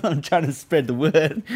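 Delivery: high, slow, through laughter; laughing joke. Real, not acted. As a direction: barely hold the laugh while joking. Joking about himself between laughs.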